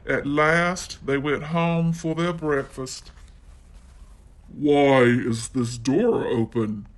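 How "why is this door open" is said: a touch lower Daddy Bear; gruff bear, voiced a little low; Daddy Bear finds the door open, deep and gruff. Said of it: "in his deep, gruff voice".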